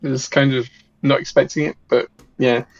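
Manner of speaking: tinny robot voice, bad mic. Real, not acted. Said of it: "J robot voice".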